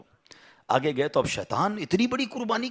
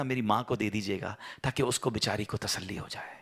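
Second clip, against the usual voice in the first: tender son's plea; 4 semitones lower than usual. Acted. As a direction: plead gently as a son to his father. Son's tender last requests.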